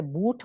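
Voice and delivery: "بوٹ" with lips rounded on the vowel. Shown as a demonstration. Teacher modelling damma for students, rounded oo in "بوٹ". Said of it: "دمہ کی sound جو ہوتی ہے".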